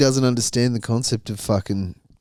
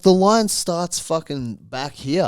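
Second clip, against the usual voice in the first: mock stern telling-off; 6 semitones higher, slower than usual. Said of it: "And I'm like".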